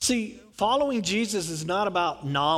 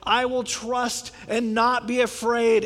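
mild mock shout; 4 semitones higher, 4 dB louder, slower than usual. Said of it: "the people would shout back".

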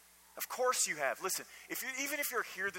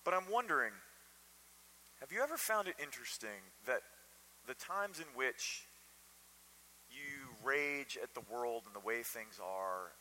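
normal talking voice

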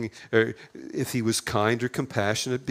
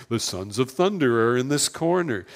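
lightly hammed-up ring announcer; wrestling announcer. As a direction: introduce a tag team, mock announcer style. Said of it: "World Wrestling Federation tag team".

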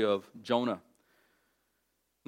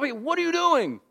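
much higher, louder frantic shouting; panicked sailors; 12 semitones higher, 6 dB louder than usual. Retold or imitated. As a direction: yell at a sleeping man in a storm. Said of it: "they wake him up".

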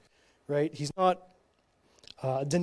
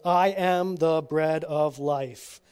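slow, mildly reproachful Jesus reading, a touch louder; little reproach; 4 dB louder, slower than usual. Acted. Jesus chiding the crowd who want only bread, mild reproach. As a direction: gently scold the crowd, drawing each word out. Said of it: "with a little reproach in his voice".

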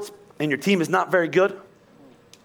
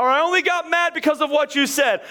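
higher-pitched self-justifying protest; mock blame-shifting, pitched up; defensive excuse; 6 semitones higher than usual. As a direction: protest that it's their fault.

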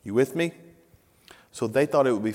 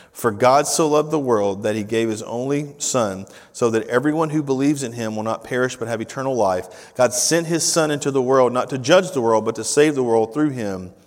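steady, raised reading voice; scripture reading; 4 dB louder than usual. Acted. Pastor reads John 3 to the church, proclaiming. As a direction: read it out with conviction.

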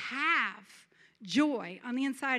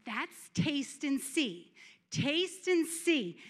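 slow savoring; much slower than usual. Acted. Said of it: "I thought".

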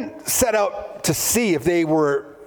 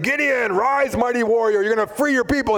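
angel's call; 7 semitones higher than usual. Acted. Angel voiced calling Gideon.

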